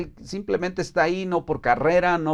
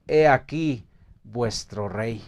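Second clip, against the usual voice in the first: slow, lower proclamation of "He aquí vuestro rey"; solemn proclamation; 4 semitones lower than usual. Acted. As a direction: announce "He aquí vuestro rey" slowly and gravely to the crowd. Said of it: "Qué declaración tan más fuerte". (proclamación lenta y grave de "He aquí vuestro rey")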